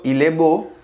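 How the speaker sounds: il est beau as il e bo; il est beau, repeated; French phrase. Shown as a demonstration. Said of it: "él es bonito".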